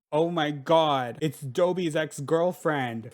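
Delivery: loud, drawn-out gasp of recognition; thrilled, stretched-out exclamation; excited surprise. Real, not acted. Player spots Dobie's ex-girlfriend on the island, excited surprise. Spotting a favorite villager.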